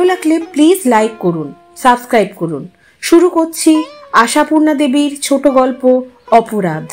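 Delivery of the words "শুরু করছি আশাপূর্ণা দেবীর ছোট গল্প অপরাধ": plain reading voice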